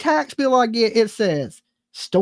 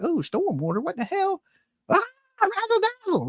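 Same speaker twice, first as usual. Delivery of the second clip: mock hick parents; 8 semitones higher, 6 dB quieter than usual. Imitating rural parents reacting.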